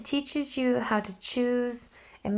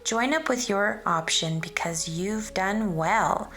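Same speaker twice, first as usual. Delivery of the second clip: lilting, sing-song rhyming read-aloud; reading a picture book aloud; 2 semitones lower than usual. Acted. Teacher reading a rhyming book to children, sing-song storytelling. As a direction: read the rhymes to a class of children, bouncing along.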